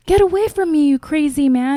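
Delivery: high, loud acted protest; mock alarmed wife. Wife rejecting the man with another's face, mock alarm. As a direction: fend him off in mock alarm. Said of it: "and she's like".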